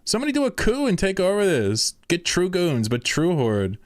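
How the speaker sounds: rally them, fired up; worked-up rant. Real, not acted. Streamer urging chat to stage a coup, excited.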